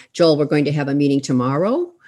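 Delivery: question-like uptalk, pitch rising on tomorrow. Demonstrating up talk on a statement, rising at the end like a question. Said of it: "Women will tend to do up talk, what we call up talk".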